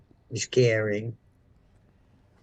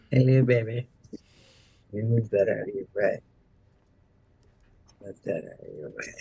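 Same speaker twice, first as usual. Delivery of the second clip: talking to a pet; 3 semitones lower than usual. Real, not acted. Talking softly to the cat.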